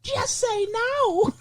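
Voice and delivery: high, slow cartoon voice; drawn-out squeaky anti-drug voice. Voicing a talking Tums.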